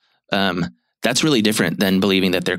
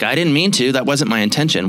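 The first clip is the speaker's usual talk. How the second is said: defensive protest; 5 semitones higher than usual. Retold or imitated. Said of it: "get defensive".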